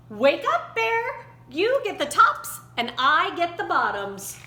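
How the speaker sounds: cheerful shout to wake the bear; calling out. A narrator's reading. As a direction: call out across the field to rouse him. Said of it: "Hare called out".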